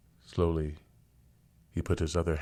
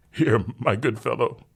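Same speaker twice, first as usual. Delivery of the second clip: louder, higher condescending gent; patronizing father; 6 semitones higher, 6 dB louder than usual. Acted. Rich father tips the rescuer, louder patronizing gent. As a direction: talk down kindly to a servant.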